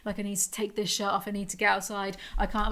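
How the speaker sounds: pacing the house, hushed and panicky; retold panic, hushed. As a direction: replay the panic quietly, as if short of air. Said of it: "being like".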